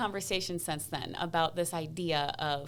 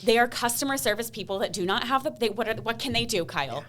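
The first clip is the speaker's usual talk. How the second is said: exasperated wife; 4 semitones higher, 3 dB louder than usual. Retold or imitated. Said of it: "telling him all my reasons".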